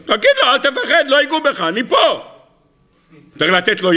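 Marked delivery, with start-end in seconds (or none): 0.1-2.2 higher, chuckling through the words; laughing reassurance. Acted. God urges Moses not to fear, laughing. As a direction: reassure him while laughing.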